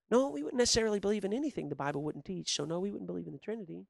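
soft, fast, friendly answer; nice and soft to the clerk; just nice. Retold or imitated. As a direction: keep it gentle and easy. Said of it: "And that tone of voice, just nice".

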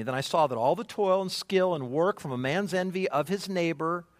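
reading the verse aloud to the congregation; scripture reading. Shown as a demonstration. Pastor reads the verse to the church, measured and clear. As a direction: read it out steadily, stressing toil. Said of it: "look at verse four again with me".

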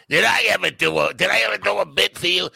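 high, loud put-on comic voice; Dave Attell impression. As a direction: push it up high and loud like a comic calling a friend. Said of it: "the best Attell impersonation I ever heard".

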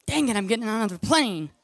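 acted exasperated giving in; grudging surrender. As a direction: give in, still complaining.

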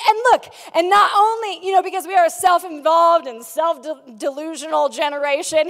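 loud, grand salesman pitch; hammed-up keynote shout. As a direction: sell it to the crowd at full volume. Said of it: "he's like".

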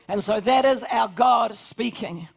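slow, loud, declaring proclamation; full-force pulpit cry; preaching shout. Real, not acted. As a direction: shout it out to the congregation.

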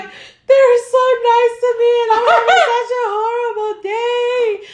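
high, laughing while tearful; laughing high pitched. Retold or imitated. Recalls crying, laughing.

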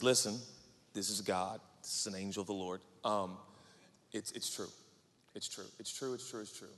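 low, soft, repeated reassurance; dream messenger. Acted. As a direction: murmur it into a sleeper's ear, fading. Angel speaks in Joe's dream.

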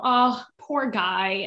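drawn-out sympathetic coo; mock pity. Voicing a viewer feeling bad for him, pitying. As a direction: stretch it out slowly with pity.

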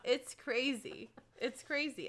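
usual speaking voice

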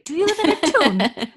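loud, high, hammed-up bad Scottish; terrible Scottish accent. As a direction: overdo a botched Scottish accent. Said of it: "you have a terrible Scottish accent".

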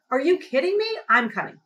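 can't believe what she's hearing; indignant disbelief. Retold or imitated. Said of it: "I'm like".

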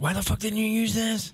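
high mock disbelief; imitating an exasperated friend; incredulous. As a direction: ask it like you can't believe it.

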